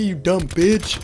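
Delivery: high pitched squeaky insult; tiny wizard insult. Acted. Imaginary wizard insults the narrator, high squeaky sneer.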